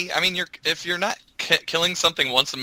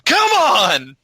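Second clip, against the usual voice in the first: louder, higher scolding; berating; 10 semitones higher, 5 dB louder, slower than usual. Retold or imitated. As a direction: chew them out. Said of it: "just berating them".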